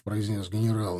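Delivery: plain reading voice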